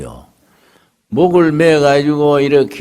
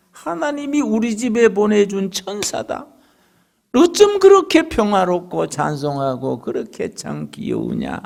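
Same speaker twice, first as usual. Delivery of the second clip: mother-in-law praising; 7 semitones higher than usual. Retold or imitated.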